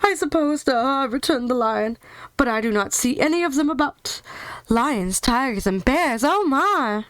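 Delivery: lion shrugging off danger; lion voice ending on a sing-song oh my. Acted.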